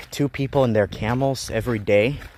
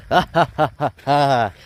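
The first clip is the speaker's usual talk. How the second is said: mock laugh; 2 semitones higher, 4 dB louder than usual. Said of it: "And I laugh and I say".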